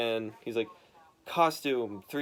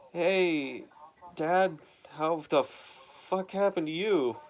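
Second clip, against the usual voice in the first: 1 lightly voiced son; 5 semitones higher, slower than usual. Son voiced asking father.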